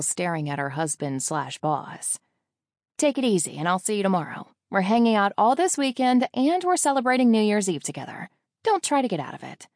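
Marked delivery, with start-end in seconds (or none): 3.0-9.7 louder, higher bossy best friend; friendly scolding. A narrator's reading. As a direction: lay down the law to your bestie. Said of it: "She scolds me".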